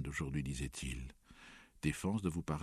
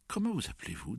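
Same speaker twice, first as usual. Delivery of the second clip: lifted, higher-pitched encouraging question; gently prompting, pitched up at the start; 7 semitones higher, faster than usual. A narrator's reading. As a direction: coax an answer out of them. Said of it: "d'une voix encourageante".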